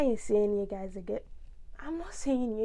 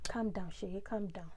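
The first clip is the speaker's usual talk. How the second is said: low, soft talk to oneself; self-soothing; 4 semitones lower, 13 dB quieter than usual. Real, not acted. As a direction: quietly settle yourself down, pitch dropped. Tells herself to calm down.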